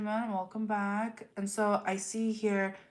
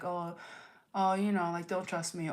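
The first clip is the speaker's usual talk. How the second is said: offhand, mock-casual aside; lightly imitated breezy warning. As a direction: toss it off like it's nothing. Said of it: "They'll just kinda casually be like".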